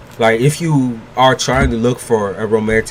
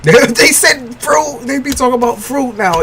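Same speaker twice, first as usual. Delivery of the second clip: squeaky disbelief; 12 semitones higher, 3 dB louder than usual. Real, not acted. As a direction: squeak it out, half laughing. Reacting to chat comments.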